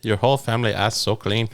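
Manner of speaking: put-on Korean accent. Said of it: "your Korean accent sounds so Mexican".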